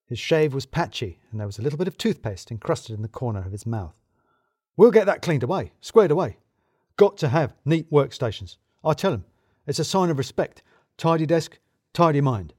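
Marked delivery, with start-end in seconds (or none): 4.8-12.5 louder, overeager manager voice; hearty boss covering his nerves; a hint of a wired boss; jittery boss. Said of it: "Richard Balls looked like he slept".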